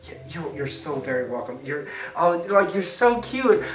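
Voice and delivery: butter them up, tossing it off; schmoozing the crowd. Acted. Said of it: "You're just like".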